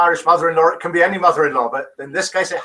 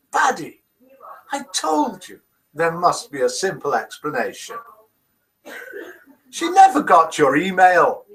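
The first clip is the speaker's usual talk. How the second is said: attempted Irish accent; 2 semitones higher than usual. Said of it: "You can't do an Irish accent".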